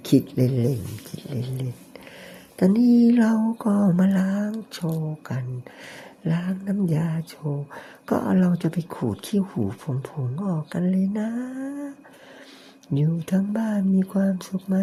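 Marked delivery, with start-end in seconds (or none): 3.6-14.8 slightly raised, sweetly affected tone; put-on cutesy voice. Showing home viewers his affected 'second voice', mildly raised. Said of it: "พยายามดัดจริต ทำเสียงสอง".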